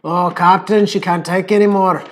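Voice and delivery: put-on overdone Scottish accent, rolled R's; hammed-up movie Scottish burr; Scotty. Mocking how Americans overdo Scottish, exaggerated Scottish accent. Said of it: "sounds so, like, Scotty from Star Trek".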